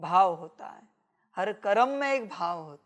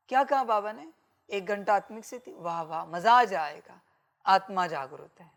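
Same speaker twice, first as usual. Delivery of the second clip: mildly acted delight at the news; eager enthusiasm. Devotee welcoming Baba's one-hour task, with eager enthusiasm. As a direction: relish it, as if looking forward to it. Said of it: "कोई उमंग उत्साह में आता है".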